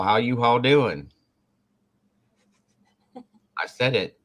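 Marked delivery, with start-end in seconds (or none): 0.0-1.1 U-Haul drawn out slow, with an H; Y'ALL said as U-Haul. Shown as a demonstration. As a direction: stretch "U-Haul" slowly in place of y'all. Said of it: "I'm doing it on purpose".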